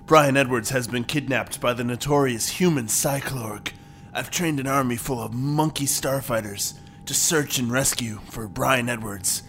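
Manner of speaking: low, hushed log entry; hushed captain's log. Acted. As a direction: murmur the log entry softly.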